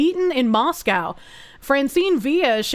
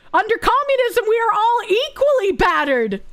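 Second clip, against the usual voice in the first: mock Soviet comrade; 10 semitones higher than usual. Mock Soviet voice after joke.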